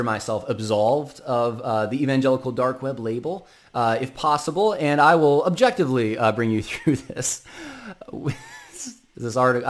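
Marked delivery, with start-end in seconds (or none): 4.7-7.4 fighting back a laugh; barely holding in laughter; trying not to laugh. Real, not acted. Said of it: "I'm holding back laughter a little bit". 9.2-9.7 trying not to laugh. Real, not acted. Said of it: "I'm holding back laughter a little bit".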